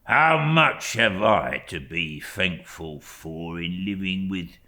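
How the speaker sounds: slow, hushed servile voice; a slow, whispered, cringing clerk; fawning humble clerk. Acted. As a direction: lay the humility on thick. Uriah's voice in story reading.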